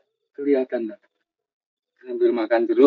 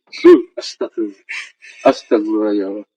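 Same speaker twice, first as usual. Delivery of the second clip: louder frightened astagfirullah; startled prayer; 7 dB louder than usual. Real, not acted. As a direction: blurt the prayer out in real alarm. Ghost hunt, hears crying sound.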